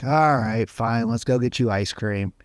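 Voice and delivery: giving-in mom. Retold or imitated. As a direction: give in with a sigh. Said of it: "She's like".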